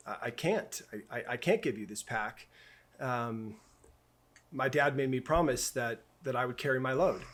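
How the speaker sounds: soft, tearful refusal, barely held together; quietly choked up, hold back the tears; a little boy close to crying, softly; teary. Retold or imitated. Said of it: "with tears in my eyes".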